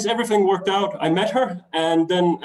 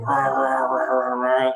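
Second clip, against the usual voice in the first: imitating a growling stomach; mock rumbling belly noise; 3 semitones lower than usual. Rumbling stomach as he pretends he is not hungry. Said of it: "my stomach is going".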